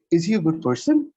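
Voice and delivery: "person" goes up at the end; rising question. Shown as a demonstration. Teacher modelling a rising yes or no question. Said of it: "That went up".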